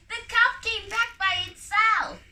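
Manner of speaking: high, loud excited shout; children shouting. A narrator's reading. Children shouting to the farmer, high and loud. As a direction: call out the good news. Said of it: "they shouted".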